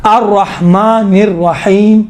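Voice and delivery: slow, measured verse with long vowels; unhurried Quran recitation; tarteel recitation. Shown as a demonstration. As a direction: stretch الرحیم and come to a full stop. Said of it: "رکے".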